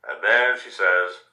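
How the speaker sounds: gentle, lively storybook reading; reading to children. A narrator's reading. News anchor reads a picture book to children at home, gently. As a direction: tell it like a bedtime story to small kids.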